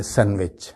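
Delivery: "سینڈوچ" as san-wich; silent D. Shown as a demonstration. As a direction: leave the D out of "سینڈوچ". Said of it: "ڈی کی آواز الگ سے بالکل نہیں آنی چاہیے". ("سینڈوچ" کو "سین وچ" بولیں)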